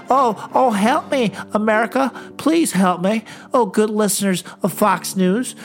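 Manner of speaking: a lightly voiced senator begging for money; mock-pleading, hammed-up grovelling; whiny Lindsey Graham. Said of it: "it's like".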